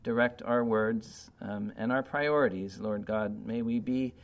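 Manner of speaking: earnest, subdued closing prayer. Acted.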